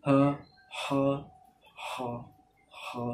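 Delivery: হা with light upward throat pressure; light upward pressed ha. Shown as a demonstration. Teacher demonstrating the light upward-pressed ha. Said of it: "উপরের দিকে হালকা চাপছি আমি".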